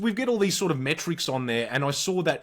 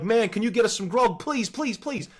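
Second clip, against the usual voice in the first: put-on begging teen; 6 semitones higher than usual. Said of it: "I'm like".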